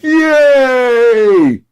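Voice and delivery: shrieking high fan voice drawn out; mock gushing fan. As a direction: ham up a dim, adoring superfan. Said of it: "your fans are like".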